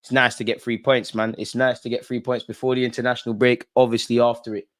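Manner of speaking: measured mock pundit read; post-match interview voice. Vlogger wraps up the win like a post-match player interview. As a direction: deliver it like a player in the mixed zone.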